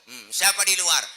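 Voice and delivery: high, loud demand at the door; loud challenge. Acted. Sick man calling to an unknown visitor outside, loud challenge. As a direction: call out sharply, high and loud.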